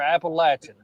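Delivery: "Appalachian" as app-uh-LATCH-un, short A; pronunciation variant. Shown as a demonstration. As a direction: say "Appalachian" with LATCH as third syllable. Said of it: "however you pronounce".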